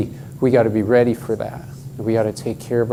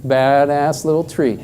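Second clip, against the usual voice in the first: laughing; 3 semitones higher than usual. Real, not acted. Laughs at own phrase.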